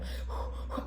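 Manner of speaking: imitated panicky puff of air; hyperventilating breath. Patient scared on the hospital bed, imitated hyperventilating. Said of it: "I'm not breathing properly".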